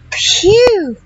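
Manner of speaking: high mock shout for mother. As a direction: call mother urgently to bring the axe. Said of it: "he shouted".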